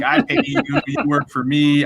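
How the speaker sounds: sharp pitch jump on I pay you, mock outraged; retold angry outburst. Angry drunk husband to arresting cop, mock outraged shout. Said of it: "I was angry".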